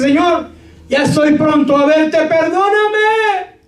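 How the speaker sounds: high, loud desperate plea; pleading prayer. Retold or imitated. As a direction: beg God for healing. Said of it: "Que dice". (enfermo suplicando a Dios, voz alta y desesperada)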